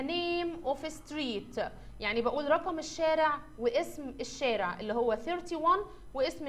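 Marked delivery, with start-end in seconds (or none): 0.0-1.6 slow model reading. Shown as a demonstration. Teacher models the phrase slowly.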